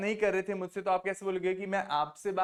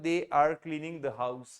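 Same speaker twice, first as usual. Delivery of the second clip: very slow, each word laid out; slow teacher demo; slow model sentence; 3 semitones lower, much slower than usual. Shown as a demonstration. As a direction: spell the sentence out slowly for the class. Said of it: "आपको बोलना था".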